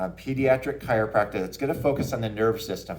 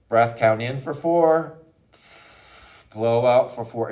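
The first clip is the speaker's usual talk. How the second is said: slow breathing cue; 4 dB louder than usual. Shown as a demonstration. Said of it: "do this with your child".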